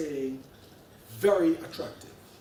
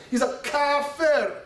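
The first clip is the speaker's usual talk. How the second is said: drawn-out, higher mock Salafi accent; emphatic Salafi accent; 5 semitones higher, slower than usual. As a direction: stretch "kafir" slowly in a Salafi accent. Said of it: "my most emphatic Salafi accent".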